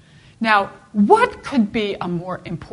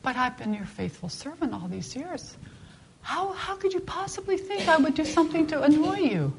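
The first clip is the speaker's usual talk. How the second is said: pleading donkey voice, much higher; donkey reproaching its angry master, higher and plaintive; talking donkey; 8 semitones higher than usual. Retold or imitated. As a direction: plead like a hurt, faithful animal. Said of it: "the donkey looks at him and says".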